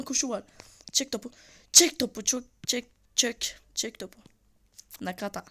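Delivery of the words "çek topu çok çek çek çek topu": loud burst telling him to shoot; shouted command. Real, not acted. Gamer shouting at his striker to shoot. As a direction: yell it at the striker.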